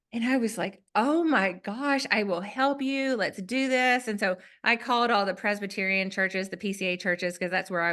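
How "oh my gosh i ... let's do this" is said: higher-pitched, earnest offer of help; eager concern. Retold or imitated. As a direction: retell rushing to the rescue, pitch lifted.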